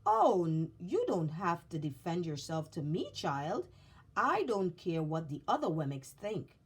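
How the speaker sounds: reassuring maker. Acted. Eli reassures the child.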